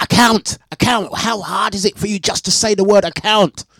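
high, loud, incredulous repeat of account; mock outrage at how he says account; exasperated outburst. Telling viewers about the support agent, high incredulous outburst. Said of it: "I'm like".

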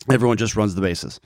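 ordinary delivery

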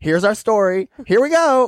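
high, building southern drawl; rising camp Southern announcement. Retold or imitated. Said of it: "southern drawl".

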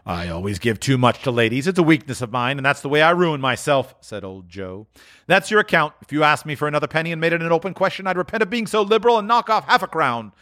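put-on high, wheezy old dealer voice; a crafty old fence welcoming them; sly old pawnbroker; old Joe.

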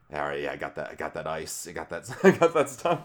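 low, then breaking into laughter; lightly voiced street dealer; drug dealer voice. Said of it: "He's, he's got the drug dealer voice down".

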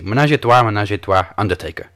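mock French warm-up phrase; lightly faked French accent. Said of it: "let me do my best French accent".

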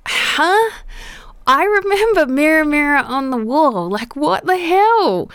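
high-pitched, incredulous outburst; baffled disbelief. Real, not acted. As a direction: protest in disbelief, voice jumping up. Baffled at the misremembered film line.

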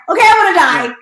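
loud, high, exaggerated announcement; mock sudden decision. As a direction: blurt it out as an absurd snap decision. Mock abrupt decision, acted quote.

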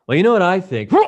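high on ecstasy, chiming into the conversation; eager chiming in. Retold or imitated. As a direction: jump into the talk keenly. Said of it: "I go".

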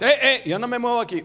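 high, loud, quick refusal; firm halting call. Acted. Jesus stops walking for the blind man, loud insistence.

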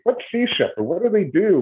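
high-pitched mock question; a squeaky imitation of curious fans; mock curious asker. Mimicking people who ask questions.

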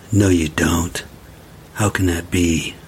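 put-on a cold mother brushing off her boy; mother scolding.

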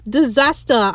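imitating a New Zealand accent; playful New Zealand accent with dropped r's. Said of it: "I love the New Zealand accent".

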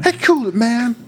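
high, mock crowd call; mock shout. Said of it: "the guy in Superstar is like".

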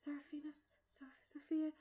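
high, halting, breaking off mid-name; nervous stuttering. Acted. Game master as the mom who never met the princess, stuttering. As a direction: stumble timidly through a long royal name. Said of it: "stuttering through your whole name".

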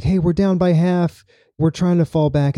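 calling in under fire; radio call. Retold or imitated. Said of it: "He's like".

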